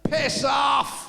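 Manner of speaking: loud, curt shout of defiance; shouted reply. Acted. Unseen reply to the Bismarck, a loud shouted rebuff. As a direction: tell them where to go, loud.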